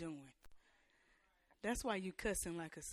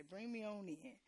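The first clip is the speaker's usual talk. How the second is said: preacher's closing; 10 dB quieter than usual. Retold or imitated. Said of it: "as the preachers say".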